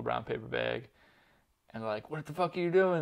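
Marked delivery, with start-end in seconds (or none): 2.1-3.0 half-hearted retold yell, pitched up; mock yelled "What the fuck are you doing?". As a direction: mimic thugs shouting at him, not at full force. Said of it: "They're, like, yelling at him".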